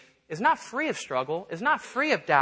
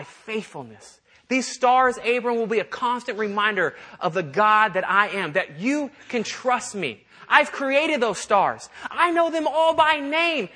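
God promising Abram, raised and slowed with awe; 4 semitones higher than usual. Acted. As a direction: lift it up like God reassuring a friend under the stars. God's promise to Abram, acted.

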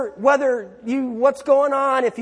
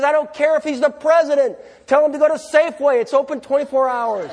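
higher, louder, dismissive; exasperated wife; 5 semitones higher, 3 dB louder, faster than usual. Acted. Wife dismissing the husband's plea, loud and exasperated. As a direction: brush him off like a fed-up wife. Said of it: "Your wife says".

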